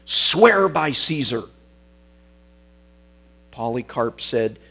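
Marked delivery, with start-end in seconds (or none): 0.1-1.4 louder, higher, drawn-out angry order; retold shout. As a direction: bellow the order with some restraint. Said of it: "he shouted at him".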